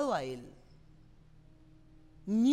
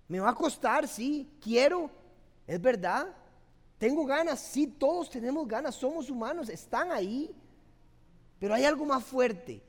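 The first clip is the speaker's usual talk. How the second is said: put-on earnest young man, louder and fervent; model declaration; 4 dB louder than usual. Shown as a demonstration. Pastor voicing a man vowing respect to his girlfriend, fervent. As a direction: declare it like a devoted boyfriend. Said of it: "ustedes deberían de decir".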